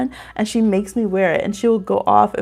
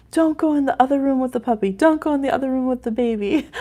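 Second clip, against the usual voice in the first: higher sing-song mock pleading; jealous little ones; 4 semitones higher than usual. Mama imitating her jealous puppy and baby, mock pleading. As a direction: lightly imitate two rivals complaining. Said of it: "they're having their, like".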